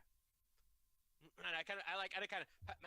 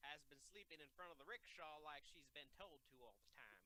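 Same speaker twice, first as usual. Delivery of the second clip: put-on southern accent; 3 semitones lower than usual. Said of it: "everyone have a southern accent".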